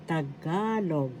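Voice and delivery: Tagalog with the stress on GA; stress on second syllable. Shown as a demonstration. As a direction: say Tagalog, leaning on the middle syllable, ta-GA-log. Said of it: "The accent is in the second syllable".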